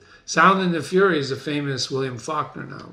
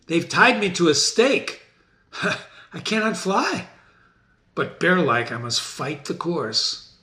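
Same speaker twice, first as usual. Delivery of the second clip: cornered Macbeth. Acted.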